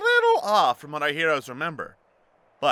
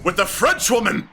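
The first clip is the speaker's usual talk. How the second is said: mock excitement; 7 semitones higher, 4 dB louder than usual.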